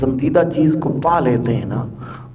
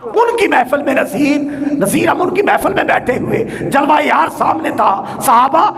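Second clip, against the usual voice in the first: raised, declaimed devotional couplet with comment; fervent verse preaching; 7 semitones higher than usual. Real, not acted. Preacher expounding Naseer's couplet on the Prophet's smile, fervent preaching.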